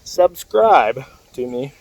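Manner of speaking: slow loud subscribe to me. Real, not acted.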